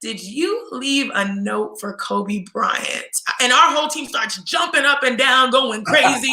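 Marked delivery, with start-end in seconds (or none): 0.0-3.0 slow, softer, deliberate question; coach's slow question. Retold or imitated. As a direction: let the question hang, slow and soft. Coach stares then asks.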